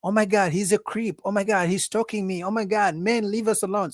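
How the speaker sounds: mock woman accusing a man on camera; TikTok complainer. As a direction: imitate a woman filming herself in outrage. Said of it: "So she'll pull out her phone".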